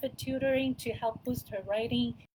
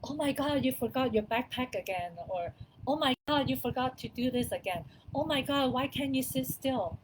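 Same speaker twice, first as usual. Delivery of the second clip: exasperated parent; 2 semitones higher than usual. Retold or imitated. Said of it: "rather than saying".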